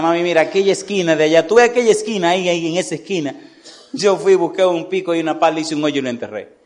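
lightly acted child's confession, mostly hurried; a touch of breathless confession; confessing boy. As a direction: tumble through it like a boy owning up. Boy blurts out confession to mother.

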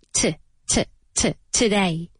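"t" as short repeated tuh, then "today" as tuh-DAY; soft neutral vowel. Shown as a demonstration. Teacher correcting the error, short tuh sounds leading into "today". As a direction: drill the weak "t" into "today". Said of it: "se pronuncia como si fuera".

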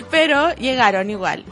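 laughing. Real, not acted. Laughing about the late cards.

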